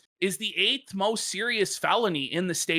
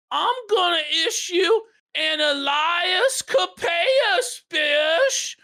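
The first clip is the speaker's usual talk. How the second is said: quoting the stern judge; 8 semitones higher than usual. Retold or imitated. Judge voiced in retold story.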